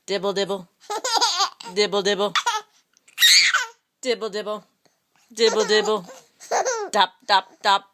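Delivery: low pattering rain noise; rain sounds. Shown as a demonstration. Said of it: "He can sound like the rain".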